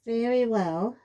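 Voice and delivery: high, loud, breaking voice; a mother near tears, voice breaking; voice cracking. A narrator's reading. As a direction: let the voice crack on it. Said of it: "her voice cracking".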